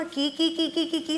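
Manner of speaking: lightly imitated parrot chirps; sweet parrot call. Shown as a demonstration. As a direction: chirp kee-kee sweetly for the class. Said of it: "തത്തമ്മ വിളിക്കും പോലെ നല്ല മധുരമായിട്ട്".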